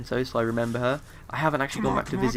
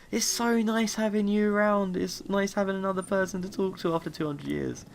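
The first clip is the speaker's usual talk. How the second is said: robot butler voice; 8 semitones higher than usual. Retold or imitated. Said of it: "he's like".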